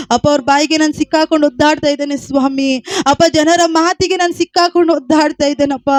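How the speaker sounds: pleading, sustained chant-like prayer; fervent prayer. Real, not acted. Preacher pleading to God for those in tears, fervent prayer. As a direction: pray it out insistently on a held, even tone.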